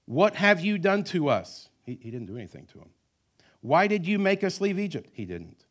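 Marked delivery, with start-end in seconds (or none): 0.1-1.7 high, loud, slow accusation; accusing cry. Retold or imitated. Israelites accusing Moses. 3.6-5.1 high, loud accusation; whiny complaint. Retold or imitated. Israelites complaining to Moses.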